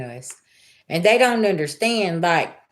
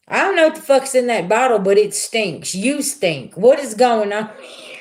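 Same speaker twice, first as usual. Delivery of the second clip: angry confrontation; 4 semitones higher than usual. Retold or imitated. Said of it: "I was like".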